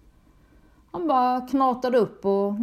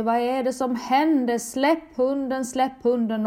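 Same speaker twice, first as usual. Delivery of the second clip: desperate raised cry, somewhat higher; panikskrik; 4 semitones higher than usual. Retold or imitated. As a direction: yell at him to let the dog go. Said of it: "och skriker". (uppspelat, panikartat rop)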